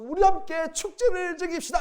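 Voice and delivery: father joyfully announcing a feast to all; joyful invitation. Retold or imitated. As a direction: call everyone to the feast with delight.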